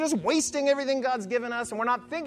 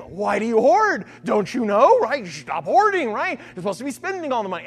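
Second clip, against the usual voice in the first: louder, half-acted scream at the hoarders; mock scream; 5 dB louder than usual. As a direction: call out in a hammed-up scolding yell. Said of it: "And they scream".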